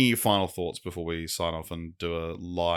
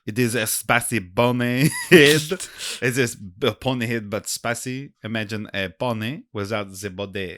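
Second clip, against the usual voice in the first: lightly done French waiter; mild French waiter accent; thick French accent; 3 semitones higher, 4 dB louder than usual. Acted. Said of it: "The waiter has a very thick French accent".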